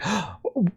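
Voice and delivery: soft, dramatic intake of breath; quick put-on gasp; mock gasp. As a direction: gasp in pretend alarm. Acting out alarmed reaction.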